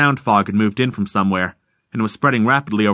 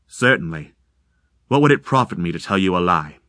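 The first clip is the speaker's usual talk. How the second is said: lower, calm hollow stranger; eerie deep voice; 5 semitones lower than usual. Acted. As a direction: serene and ghostly. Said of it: "sounding both deep and insubstantial".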